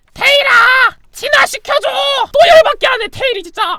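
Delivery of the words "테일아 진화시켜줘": put-on cartoon dinosaur voice, much higher pitch. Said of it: "아구몬 성대모사 할 줄 압니다".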